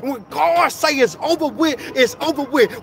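impassioned preacher building in repeated refrains; fervent preaching. Real, not acted. Preaching builds to full force.

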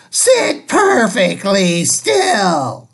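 slow, grim stern decree; witchy teacher. Acted. The strict substitute cancels story hour, slow and grim. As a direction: Miss Swamp denies story hour. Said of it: "said Miss Swamp".

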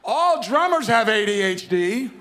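joking about drummers while laughing. Real, not acted. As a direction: laugh through the punchline.

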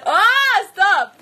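loud, high squeal of protest; teased protest. Real, not acted. Streamer begging teasing friend to stop, high loud protest. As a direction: cry out to make the teasing stop.

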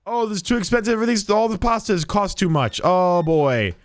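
high mock whine about prices; whiny complaining customer. Customer griping to the cashier about pasta prices, high whiny voice. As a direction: whine like a cheapskate shopper.

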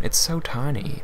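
cutesy. Acted. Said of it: "adorable cuteness".

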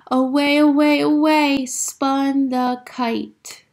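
slow, stretched storybook line; dramatic narration. A narrator's reading. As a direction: draw the words out. Story kite spins away.

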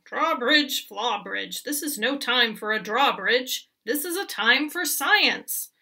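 insistent goat. Acted.

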